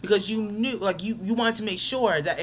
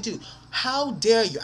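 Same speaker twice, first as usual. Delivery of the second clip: slow, higher-pitched indignant challenge; pissed off; 5 semitones higher, slower than usual. Retold or imitated. Retelling confronting the friend who disrespected him, pissed off. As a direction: retell your outrage, dragging out the words. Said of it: "I was pissed. I was like".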